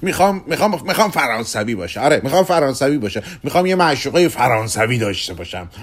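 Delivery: lightly acted insistent customer; eager Kugelmass. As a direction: stammer into an eager demand.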